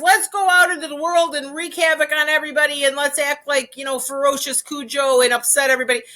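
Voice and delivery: a hint of a dog itching for trouble; rowdy dog voice. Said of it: "his way of walking is".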